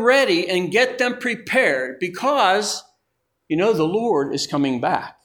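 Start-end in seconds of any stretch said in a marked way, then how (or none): none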